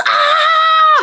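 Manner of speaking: high, loud mock scream; open-throated "ah" imitating screams; imitated crowd scream. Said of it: "Like, everyone's screaming".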